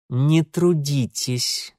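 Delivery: slow words forced out between teeth; grudging and slow, through gritted teeth. Acted. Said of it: "процедил Алексей".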